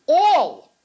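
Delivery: All, held long, high and loud; stress on All. Shown as a demonstration. Rabbi stresses the rule to the girls, emphatic All. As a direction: hit All hard and stretch it. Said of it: "underline all".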